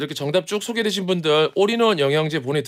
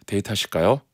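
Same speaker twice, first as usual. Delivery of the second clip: suave team leader; 7 semitones lower than usual. Retold or imitated. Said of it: "남자 연기를 하는데".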